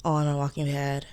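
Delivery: stuffy, congested voice; blocked nose. Real, not acted. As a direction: talk through a blocked nose. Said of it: "I sound So congested".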